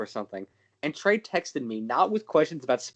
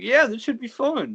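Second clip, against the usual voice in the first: forced, strained, pitched-up voice through clenched teeth; 8 semitones higher than usual. Retelling how he answered his mom about a movie: retelling a reply through gritted teeth. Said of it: "through gritted teeth".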